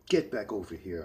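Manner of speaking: loud, barked command; aggressive yell. Acted. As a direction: yell it after him. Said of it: "I aggressively yelled".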